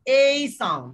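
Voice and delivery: এই said as a clear gliding "ei"; teacher modelling the ei sound; ei sound demo. Shown as a demonstration. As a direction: stretch এই into a full ei glide. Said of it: "কি sound শিখবো আজকে বলেন তো".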